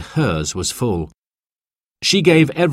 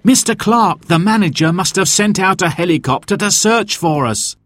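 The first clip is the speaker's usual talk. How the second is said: excited; 9 semitones higher than usual. A narrator's reading. Dad excited at helicopter arriving.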